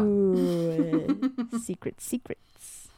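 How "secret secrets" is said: hushed. Pretend. Hushed teasing.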